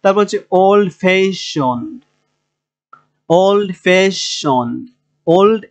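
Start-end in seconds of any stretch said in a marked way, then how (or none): 0.5-2.0 ওল্ড ফ্যাশনড with ফ্যাশ stressed; teacher's model ওল্ড ফ্যাশনড, weight on ফ্যাশ; stress on second syllable. Shown as a demonstration. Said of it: "তো আমাদের দুই নম্বরে এসে". 3.3-4.9 slow ওল্ড ফ্যাশনড, ফ্যাশ leaned on; careful ওল্ড ফ্যাশনড with ফ্যাশ held; stress on second syllable. Shown as a demonstration. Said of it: "এখানে stress করতে হবে".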